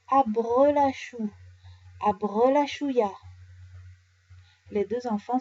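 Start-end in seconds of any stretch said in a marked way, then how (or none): 0.1-3.1 slow, drawn-out magic words; magic incantation. A narrator's reading. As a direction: stretch out the spell words. Teaching the magic formula.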